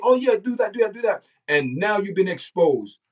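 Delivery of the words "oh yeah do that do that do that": voicing the false god. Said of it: "Tell you all of these things".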